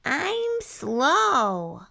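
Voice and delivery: mildly relieved porcupine. A narrator's reading. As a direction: breathe out relief, lightly voiced.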